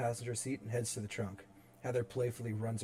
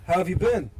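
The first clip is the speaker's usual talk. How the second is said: fake smile greeting; 7 semitones higher, 12 dB louder than usual. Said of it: "puts on a fake smile".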